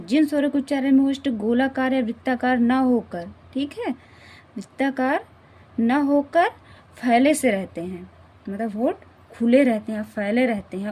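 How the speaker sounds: loud teacher read-through with stress on होकर and फैले; emphatic practice read. Shown as a demonstration. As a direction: project the definition to the class, punching होकर and फैले. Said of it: "अब बोलते हैं इसे".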